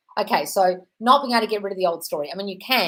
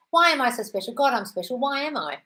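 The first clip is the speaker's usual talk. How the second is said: sing-song affirmation; 6 semitones higher than usual. Shown as a demonstration. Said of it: "Turn that into an affirmation".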